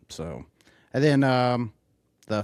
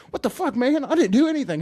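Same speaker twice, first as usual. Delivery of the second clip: high, louder put-on voice; mock protest; 14 semitones higher, 4 dB louder than usual. Retelling the party scene, a high, louder mock protest. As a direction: plead innocence like a cartoon.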